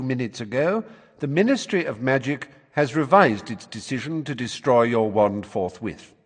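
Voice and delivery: formal, officious letter voice; official letter reading. A narrator's reading. Ministry writing to a boy about his hearing, officious. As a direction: read it out like a ministry notice.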